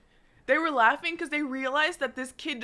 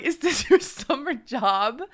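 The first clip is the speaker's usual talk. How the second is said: mocking question broken by a laugh; laughing through it; slower than usual. Real, not acted. To the young guard, laughing mid-question. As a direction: laugh while asking. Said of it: "burst out laughing".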